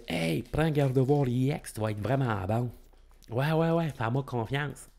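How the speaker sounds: put-on light Acadian accent, selling a deck to a friend; a hint of Acadian French, pushy and chummy. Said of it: "j'ai pris mon accent, euh, acadien".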